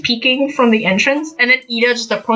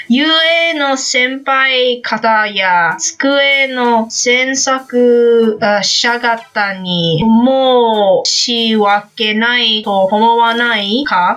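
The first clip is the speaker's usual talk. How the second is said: slow, lightly acted lecturing classmate; drawn-out mock scolding in Japanese; Ida; much slower than usual. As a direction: lecture slowly, like an earnest rule-follower. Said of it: "Let me try to do a I-, Ida and a, a Kacchan impression".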